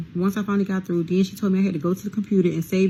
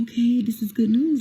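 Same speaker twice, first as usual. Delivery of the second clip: higher-pitched, pleased retold reaction; hopeful excitement; 6 semitones higher than usual. Inmate reading mom's email about co-defendant's release, hopeful. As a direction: voice a dawning hope.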